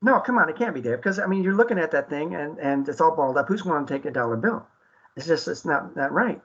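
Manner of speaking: playfully pretending to doubt it's still worth a dollar; mock disbelief. Teasing co-host David over the balled-up dollar, mock incredulous. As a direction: act incredulous to make the point.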